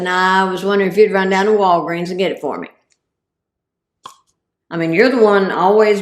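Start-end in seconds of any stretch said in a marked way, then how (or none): 0.0-2.7 quick cover-up. Retold or imitated. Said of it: "I said".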